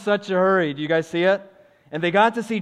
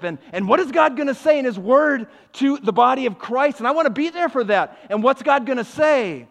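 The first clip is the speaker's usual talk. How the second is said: fervent preaching; 6 semitones higher, 6 dB louder than usual. Real, not acted. Fervent preaching about worship.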